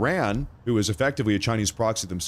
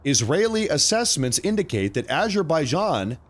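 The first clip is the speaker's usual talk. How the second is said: breaking news urgency; 3 semitones higher than usual. Real, not acted.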